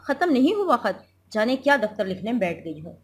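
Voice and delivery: a hint of a mocking sick husband; sarcastic husband. Husband taunts wife. (ताना मारते मियाँ का हल्का लहजा)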